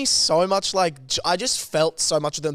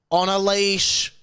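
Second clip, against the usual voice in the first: put-on slow, raised-pitch heckle as the old lady; playing old lady; 4 semitones higher, slower than usual. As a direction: draw it out in a mock old-lady scolding. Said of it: "let me be the lady".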